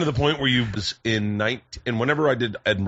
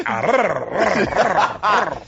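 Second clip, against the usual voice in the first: a light mock London barker shouting rah; lightly hammed-up London street accent; 6 semitones higher, 3 dB louder, slower than usual. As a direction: imitate a London street hype man barking. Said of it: "he was doing it in an accent".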